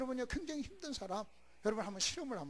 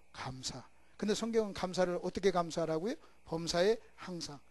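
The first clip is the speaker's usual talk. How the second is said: call and response; 8 dB louder than usual. Acted.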